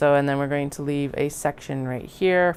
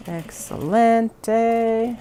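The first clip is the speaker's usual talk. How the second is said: mock Spanish; 7 semitones higher, 5 dB louder, much slower than usual. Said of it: "trying to say Spanish".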